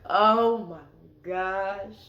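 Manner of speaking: drawn-out slow dread, imitating fear; a slow, scared oh my gosh; retold panic at being caught; terrified gasp.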